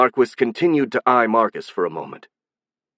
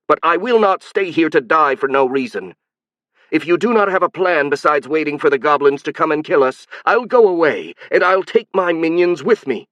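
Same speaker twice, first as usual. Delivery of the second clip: emotional shrill voice; 6 semitones higher, 3 dB louder than usual. Acted. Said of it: "getting emotional herself".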